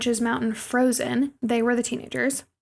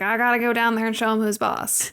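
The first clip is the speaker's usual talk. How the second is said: redneck dad voice. Retold or imitated. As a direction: play a swaggering country dad, half joking. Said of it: "my redneck dad voice".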